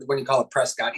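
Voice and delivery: "Prescott" said with a full "-scot"; as spelled. Shown as a demonstration. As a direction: say "Prescott" letter for letter, press-scot. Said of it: "even though that's how it's spelled".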